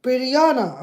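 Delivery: loud, word by word with long gaps; loud voice command. Real, not acted. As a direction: spell it out for a stubborn machine. Repeats command to failing assistant.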